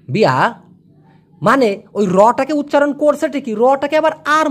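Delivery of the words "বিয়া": বিয়া with r swallowed; Malay pronunciation. Shown as a demonstration. Teacher models Malay বিয়া. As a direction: stop বিয়া before the r. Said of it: "ওরা এই বিয়ারটাকে বলে বিয়া".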